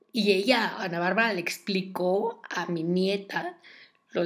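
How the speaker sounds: loud, emphatic gossipy señora impression; mock-earnest, declaimed confession; Talina Fernández oversharing. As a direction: proclaim intimate details loudly, imitating an oversharing grandmother. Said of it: "Ya contándonos cosas bien íntimas, así como".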